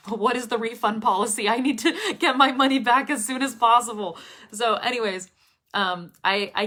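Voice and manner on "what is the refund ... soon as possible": louder, laughing imitation of a panicked buyer; mock panic. Imitating someone burned by an online course, mock panic. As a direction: play the urgent refund demand for laughs.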